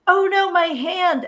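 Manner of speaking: high, slow mock wail; mock yelling. Amputee extra yelling during recorded screams, high mock cry. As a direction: imitate an extra crying out over a hand. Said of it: "he's yelling".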